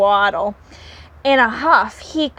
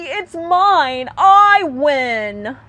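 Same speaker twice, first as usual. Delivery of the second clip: higher, louder claim; shout; 4 semitones higher, 3 dB louder, much slower than usual. Acted. Hickory to Pecan, shouting the claim. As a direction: insist it's yours. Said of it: "shouted Hickory".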